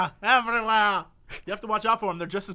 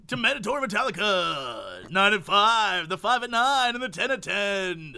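classic rock DJ. Retold or imitated. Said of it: "The classic rock D J is like".

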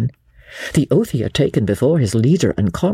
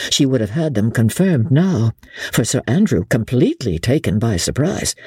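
ordinary delivery, nothing marked

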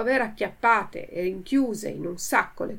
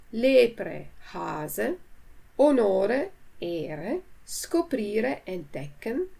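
slow, measured word-list reading; vocabulary reading; slower than usual. Acted. Teacher reading a word list to learners, measured and clear. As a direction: read each word and its translation clearly.

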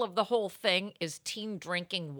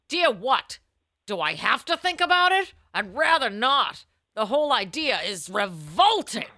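a hint of a prim columnist; advice columnist reply; 2 semitones higher, 3 dB louder than usual. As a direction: answer like a scandalised agony aunt.

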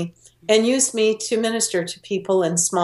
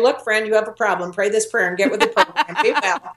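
preachy lecture. Retold or imitated. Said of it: "take them by the shoulders and say".

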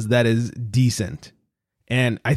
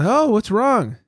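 imitating the boss; 8 semitones higher, slower than usual. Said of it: "he goes".

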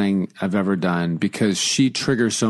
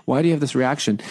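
sarcastic; 6 semitones higher than usual. Retold or imitated. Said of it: "I just got sarcastic with it".

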